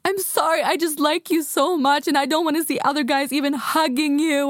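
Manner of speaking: high-pitched imitation of tearful pleading; mock tearful. Man begging her not to see other guys, mock tearful. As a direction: whine it high, mimicking a crying man. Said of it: "Då började han grina".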